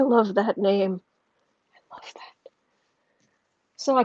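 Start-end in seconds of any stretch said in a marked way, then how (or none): 1.7-2.5 barely audible whisper; whispered delight. Real, not acted. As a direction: repeat it under your breath. Repeats it under breath.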